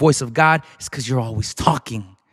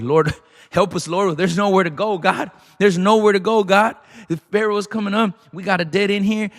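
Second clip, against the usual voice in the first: panicked people crying out; 5 semitones higher than usual. Acted. People crying out, trapped at sea.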